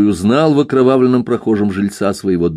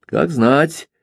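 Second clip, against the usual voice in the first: meaningful; 6 semitones higher than usual. A narrator's reading. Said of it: "многозначительно ответил милиционер".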